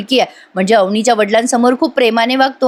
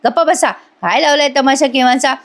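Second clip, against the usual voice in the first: irritated scolding, pitch raised; acted annoyance, higher than usual; annoyed; 4 semitones higher than usual. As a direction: order someone home, fed up. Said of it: "यशा आता खूप चिडतो".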